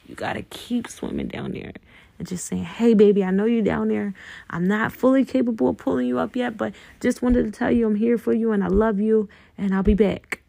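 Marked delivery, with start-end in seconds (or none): 2.6-10.4 gentle loving reassurance; tender inner talk. Pretend. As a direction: speak to yourself like a loved one below the water. Talking tenderly to inner self.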